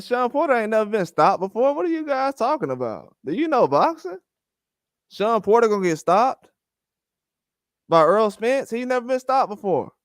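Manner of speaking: you can't be serious, do you even know boxing; incredulous retort. Retold or imitated.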